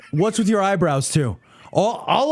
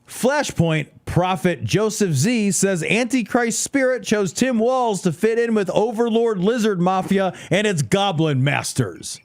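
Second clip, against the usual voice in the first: headline read. Shown as a demonstration. Reading absurd headline aloud dramatically.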